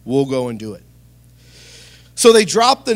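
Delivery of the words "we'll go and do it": tired. Acted. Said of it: "fatigue in his voice here".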